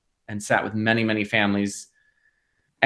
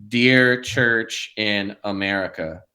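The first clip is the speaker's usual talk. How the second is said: Southern preacher; 5 semitones lower than usual. Retold or imitated. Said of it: "this guy ... he goes".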